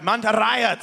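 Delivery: all-caps emphasis. Real, not acted. Caster reading a team hashtag to viewers, all-caps emphasis. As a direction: punch the name out like it's all caps. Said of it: "have to say all caps names louder".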